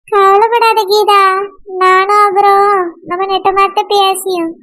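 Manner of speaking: deep, slow reassurance to a weeping friend; consoling friend. Acted. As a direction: soothe a crying friend, low and unhurried. Alamelu consoles crying Geetha.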